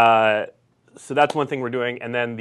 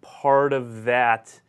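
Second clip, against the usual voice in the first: slowing down and losing the thread; trailing off; 2 semitones lower, much slower than usual. Real, not acted. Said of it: "I forgot what I was saying".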